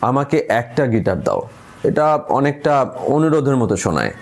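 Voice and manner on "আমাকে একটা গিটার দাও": একটা given the weight, as a request; stress on একটা. Shown as a demonstration. Teacher demonstrating stress on একটা as a request. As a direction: lean on একটা. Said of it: "দ্বিতীয় শব্দটায় জোর দিলে".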